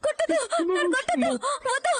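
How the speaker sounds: high frantic begging, don't hit me; terrified pleading in sleep. Acted. Wife screaming in a nightmare, begging not to be hit, high and frantic. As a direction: cry out from a nightmare, begging to be spared. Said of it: "ఎందుకలా అరిచావు".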